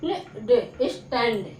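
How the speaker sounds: स्टैंड stretched very slowly, with a little laugh; स्टैंड, slow and amused demo; slow model word. Shown as a demonstration. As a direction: drag स्टैंड out with a chuckle for the class. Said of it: "ऐ करके बोलोगे".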